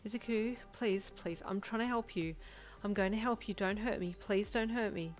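mildly wobbling, fearful voice; fear-stricken plea. Acted. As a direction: plead with a touch of panic. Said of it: "Your voice wobbled, fear-stricken".

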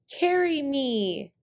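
high, loud coyote demand. Acted. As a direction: order them bossily. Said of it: "he demanded".

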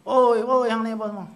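loud angry shout at the students; angry scolding. Retold or imitated. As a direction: scold them like an angry teacher. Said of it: "duk marah-marah tok guru dia". (jerit marah guru kepada murid)

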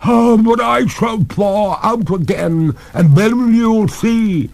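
high, loud, drawn-out threat; threatening cry. A narrator's reading. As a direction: ghost lady vowing revenge, slowing at the end. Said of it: "cried the lady threateningly".

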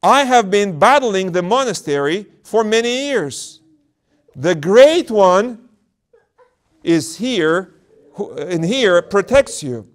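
high, loud, slow taunting demon. Acted. Demon taunting the elder about his legs. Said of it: "the demon said".

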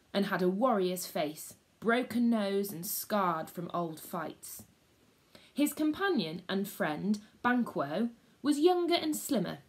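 lively read-aloud storyteller; story reading for schoolchildren; story narration. A narrator's reading. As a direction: tell it to the class like a gripping tale.

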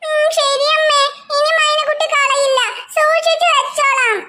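a hint of a meek child promising; sweetly obedient small girl; lightly voiced little girl. Maina promises her mother to keep the pencil safe, lightly childlike.

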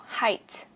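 "Height" with a clearly popped T; careful model "Height", crisp ending; final T released. Shown as a demonstration. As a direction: let the T at the end of "Height" out. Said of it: "Bật âm T ra cho mình".

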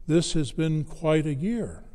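gently imitated comforting father; low, soothing. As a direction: comfort the family, with long pauses. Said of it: "in a very low, very comforting, soothing voice".

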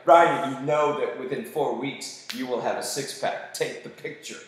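firm, deliberate mock self-coaching; self pep talk. Man coaching himself before a photo, firm.

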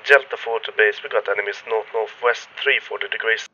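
tinny voice like talking into a can; radio voice, thin and canned; tin can phone. Shown as a demonstration. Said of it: "like I'm talking into a can right now".

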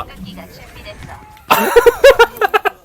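high squealing laughter; shrieking laugh. Real, not acted. Laughs at surprise death.

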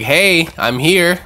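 mock calling out. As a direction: announce yourself, drawing it out. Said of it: "kind of voicing out like".

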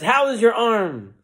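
high, stretched-out preacher question. Acted. Preacher turns to Mary after praying, high and grand. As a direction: ask it grandly, drawing out the words. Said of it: "the preacher lifted his hand".

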